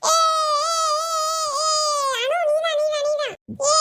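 put-on excited shrieking kids' yell; game yelling. Children yelling in their game, excited shriek. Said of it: "ஏன்டி இப்படி கத்துறிய".

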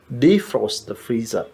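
very slow, soft and careful; slow model phrase. Shown as a demonstration. Teacher drilling the phrase slowly for students. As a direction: drag each word out for learners. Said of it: "ഫ്രിഡ്ജിലെ ice കളയുക".

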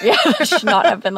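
laughing while repeating it. Real, not acted. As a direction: chuckle through the words.

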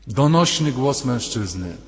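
slow, resonant, declaimed "Donośny"; booming voice. Shown as a demonstration. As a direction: boom out "Donośny głos" slowly. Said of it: "zawołał donośnym głosem". (donośnie, powoli, z mocą)

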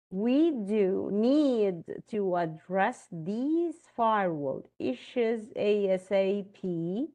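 slow, with do pressed hard in We do need; emphatic do example. Shown as a demonstration. Teacher reads an example sentence to students, stressing do. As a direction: lean hard on do, slowly. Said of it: "Emphatic do plus the main verb".

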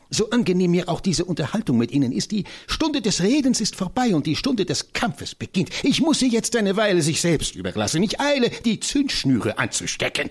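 high, fiery voice of the tiny professor; rally for battle with comic zeal; an excitable old scholar, pitched high; eccentric little professor. Acted.

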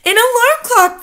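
very high, loud astonished echo; amazed crying out. A narrator's reading. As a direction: echo it in awe. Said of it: "they cried".

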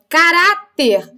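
slow "Caráter" with RÁ stretched; tonic syllable stressed. Shown as a demonstration. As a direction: lean on the middle syllable of "Caráter". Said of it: "A sílaba tônica aqui está acentuada também".

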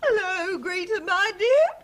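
slow, weepy hello with a catch in the voice; upset aunt greets her niece, slow and teary; tearful greeting. Acted. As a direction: greet her as if near tears. Merle upset over flooded house.

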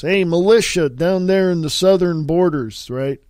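slipping into a New York mobster character; New York accent. Acted. Host calls on border militia in character, New York accent. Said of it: "where'd that New York accent come from".

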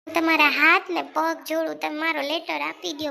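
begging, loud at first then settling; I fold my hands before you, desperate plea; wife begging her husband for the letter; pleading. Acted.

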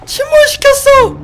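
very high, loud shriek; shocked shriek. Real, not acted. Streamer sees a giant hand sink the boat, high shriek. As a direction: cry out in alarm.

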